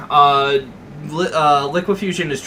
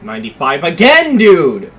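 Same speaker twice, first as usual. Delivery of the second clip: frustrated shout; 7 dB louder than usual. Real, not acted. Gamer reacting to game.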